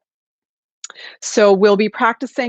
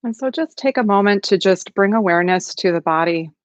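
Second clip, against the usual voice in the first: calm, unhurried meditation guidance with long pauses; guided meditation. Acted. Facilitator settling an online group into practice, calm guided meditation. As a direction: gently settle listeners into the practice, leaving space between phrases.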